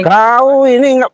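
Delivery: high, drawn-out accusing start; slow, high-pitched exasperation; exasperated accusation. Real, not acted. Quarrel, accusing the man.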